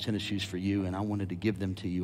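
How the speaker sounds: hammed-up sincere gift; pretend gift speech. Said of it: "What if I told him".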